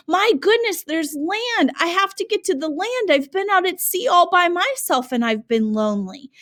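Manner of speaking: hammed-up sailor begging for land; lonely sailor's cry. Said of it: "he's screaming".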